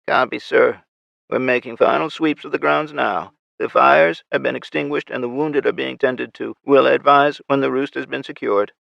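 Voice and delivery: lightly voiced raspy soldier; crisp military radio report; raspy female soldier. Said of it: "her raspy voice".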